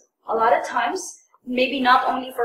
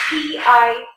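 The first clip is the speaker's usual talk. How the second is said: slow spelling; slower than usual. Shown as a demonstration. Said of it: "some people would spell it out as".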